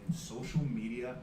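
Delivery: hyped-up pro wrestler promo; wrestling promo. Pretend. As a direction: brag like a wrestling heel on the mic. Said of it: "Are you ready to cut a promo?".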